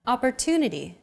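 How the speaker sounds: Opportunity with a longer "tu" syllable; stress on TU. Shown as a demonstration. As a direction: lean on the "tu" in Opportunity. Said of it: "it's pronounced longer than all other syllables".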